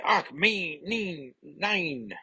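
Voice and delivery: put-on high, wailing German-accented dismay. Nightcrawler's German dismay after failed test.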